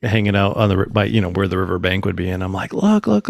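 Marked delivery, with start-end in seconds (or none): 2.7-3.3 retold high-pitched "look, look"; urgent pointing out. Telling his wife to look at the orbs, urgent. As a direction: urge her to look, pitch jumping up.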